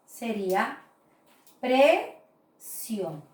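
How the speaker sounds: precio said as two syllables, pre-cio, drawn out; syllabified slowly. Shown as a demonstration. Teacher dividing precio into syllables for students. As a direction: sound out precio slowly for the class. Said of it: "voy a separar en sílabas".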